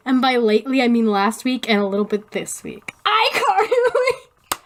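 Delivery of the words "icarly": high, drawn-out reveal; excited announcement. Real, not acted. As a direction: announce it with a big fanfare. Announcing next theme.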